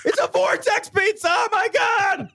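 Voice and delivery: high-pitched panicked cry, hammed up; mock-horrified shout. Riffing on a pizza that sucks everything in, mock-horrified shout. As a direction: yell it like a disaster-movie victim. Acts out horror at pizza vortex.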